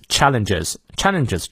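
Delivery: "challenges" with the stress at the front; stress on first syllable. Shown as a demonstration. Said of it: "注意重音在前".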